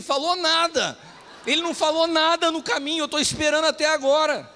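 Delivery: mock-furious sulky complaint; retold angry outburst. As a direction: blurt it out, indignant but laughing at yourself. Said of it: "mas eu tava bravo mesmo".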